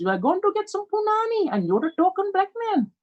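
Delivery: high-pitched Asian accent impression. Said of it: "As you heard the Asian accent".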